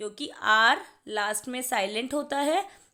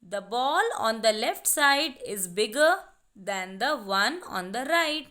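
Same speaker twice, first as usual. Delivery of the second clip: slow read aloud; much slower than usual. Shown as a demonstration. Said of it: "तो हम first देखेंगे".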